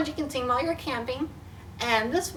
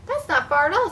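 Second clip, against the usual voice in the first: put-on bright, raised, upbeat girl's line; cheerful; 5 semitones higher, 5 dB louder than usual. Daisy cheering the short walk, lifted and louder. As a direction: pitch it up with glee.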